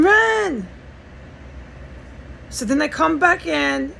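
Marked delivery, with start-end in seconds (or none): 0.0-0.7 high, loud mimicked yell; mock holler, pitched way up; imitated scream. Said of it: "he's screaming".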